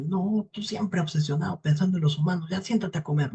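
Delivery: put-on old wife's impatient nagging; dismissive old woman. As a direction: wave off a fussy devil, lightly voiced. Old woman brushes off the devil.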